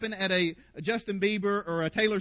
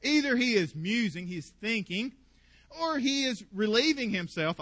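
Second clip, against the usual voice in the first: mocking; 4 dB louder than usual. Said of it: "Elijah mocked them".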